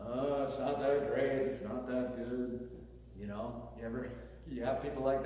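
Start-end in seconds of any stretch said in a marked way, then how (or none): 0.1-2.7 slow, droning sing-song moping; mock Eeyore gloom. Pastor mimicking a gloomy churchgoer, mock Eeyore moan. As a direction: drag the words out like a sulky donkey. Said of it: "they have that Eeyore complex going on".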